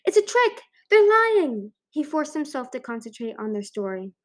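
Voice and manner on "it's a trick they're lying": loud, high-pitched yell; yelled accusation. A narrator's reading. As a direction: call it out like raising the alarm. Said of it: "expecting one of them to yell".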